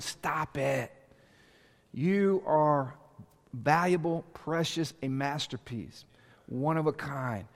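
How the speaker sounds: almost hushed, tell them they are precious; tender reassurance. Real, not acted. Pastor softly reassures congregation.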